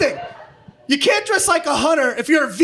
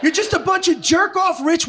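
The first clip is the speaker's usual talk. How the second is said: mock angry yell; 4 semitones higher than usual. Ranting at hipsters in crowd.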